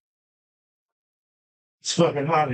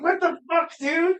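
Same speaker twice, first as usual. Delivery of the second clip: exasperated outburst; 13 semitones higher than usual. Real, not acted. Venting at the shop.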